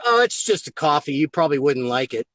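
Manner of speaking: casual, dismissive offhand offer; sly indifference, voice dropping low; reverse psychology. Retold or imitated. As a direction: play it down so she wants it. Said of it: "using the reverse psychology".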